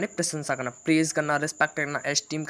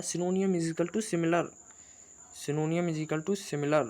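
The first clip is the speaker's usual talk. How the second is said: slow emphatic rule; 3 semitones higher, much slower than usual. Shown as a demonstration. Stresses rule slowly.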